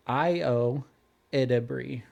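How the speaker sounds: IO EDEBRI as "eye-oh", pause, "ED-uh-bree"; name pronunciation demo. Shown as a demonstration. Host showing co-host the actress's name, IO EDEBRI said carefully. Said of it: "how do you say the main lady".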